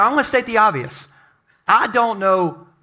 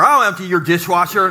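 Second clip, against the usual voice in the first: suggestive; 2 semitones lower than usual. Pretend. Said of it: "husband's reply".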